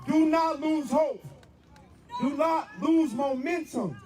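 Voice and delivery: slow, high shouted urging; rousing exhortation. Real, not acted. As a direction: hammer each word home, slow. Exhorting the crowd.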